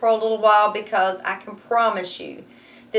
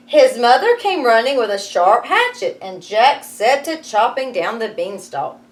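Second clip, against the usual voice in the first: lively read-aloud storytelling; story narration; 3 semitones higher, 6 dB louder than usual. A narrator's reading. Teacher reading Jack and the Beanstalk to her class, lively narration.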